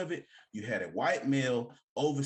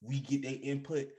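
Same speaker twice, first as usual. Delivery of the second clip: cool laid-back voice. Retold or imitated. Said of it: "how he was talking".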